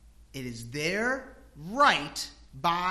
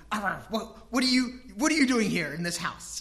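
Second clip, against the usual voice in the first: mock barking dog; 3 semitones higher, 4 dB louder than usual. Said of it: "the dog's barking".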